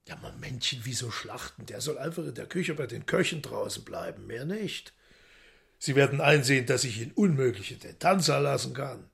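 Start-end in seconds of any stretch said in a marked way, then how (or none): 0.1-4.9 much softer, unhurried; soft calming. Acted. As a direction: settle her down quietly. Woland calmly soothes the maid.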